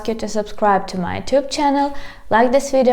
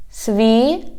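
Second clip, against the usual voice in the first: syllable by syllable. Shown as a demonstration. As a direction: split "Світлофор" with long vowels and pauses. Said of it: "divide it into syllables".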